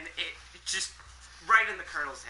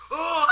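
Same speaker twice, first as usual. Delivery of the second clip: scream; 14 semitones higher, 12 dB louder than usual. Acted. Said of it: "redo that scream".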